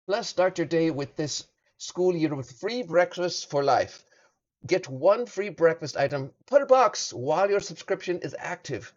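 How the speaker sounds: steady ad-read voice; measured ad read; sponsor read. Acted. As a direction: read the sponsor copy clean and even. Reads sponsor ad.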